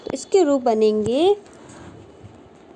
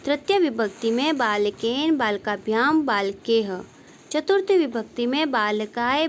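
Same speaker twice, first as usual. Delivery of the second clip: reciting declensions. Shown as a demonstration. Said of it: "तो कैसे बोलेंगे?".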